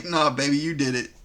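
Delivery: low, smooth-talking blame shift; casual low-voiced deflection, acted; mock gaslighting denial. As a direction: imitate a boyfriend calmly pinning it on her. Mimicking the gaslighting bed-wetter's denial.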